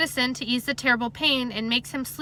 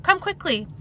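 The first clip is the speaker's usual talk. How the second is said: calling out; 6 semitones higher than usual. A narrator's reading. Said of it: "I call out".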